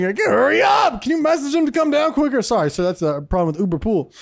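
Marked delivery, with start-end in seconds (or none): 0.0-2.4 mock impatience. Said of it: "They're like".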